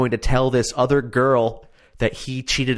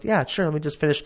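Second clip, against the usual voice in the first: mimicking; 7 semitones higher, faster than usual. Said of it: "And she goes".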